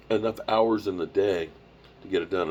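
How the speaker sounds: stretched by a yawn. Real, not acted. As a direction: talk through a big yawn. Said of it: "I'm sorry I'm yawning".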